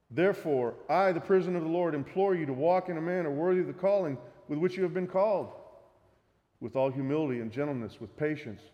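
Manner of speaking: lifted, fervent reading of the verse; scripture reading. Acted. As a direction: proclaim the apostle's plea. Reads Ephesians passage aloud.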